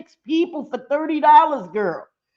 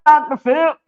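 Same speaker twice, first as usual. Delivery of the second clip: louder parting jab, pitch up; one more loud shot at him for good measure; loud playful curse; 3 semitones higher, 5 dB louder than usual. Real, not acted. Vlogger cursing out Doctor Phil once more, loud playful jab. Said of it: "Say one more time for good measure".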